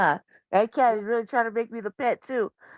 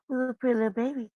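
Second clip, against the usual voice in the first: low cooing; faster than usual. Retold or imitated. Showing how the cat gets talked to, gentle cooing. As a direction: coo gently, as to a tiny pet. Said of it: "I'm talking to her low too, like this".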